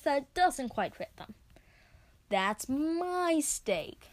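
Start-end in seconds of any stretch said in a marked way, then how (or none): 2.3-4.1 bellowing. Acted. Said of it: "they bellow".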